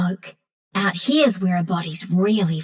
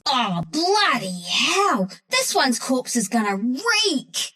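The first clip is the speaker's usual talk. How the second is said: slow, drawn-out exasperation; disgusted groan; 2 semitones higher, much slower than usual. Acted. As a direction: stretch the words out in disgusted dismay. Complaint over a stinking corpse.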